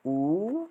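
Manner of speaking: ऊ said as a short clipped u; short u vowel. Shown as a demonstration. Teacher demonstrating the short vowel, one beat. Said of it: "तीन प्रकार के ऊ".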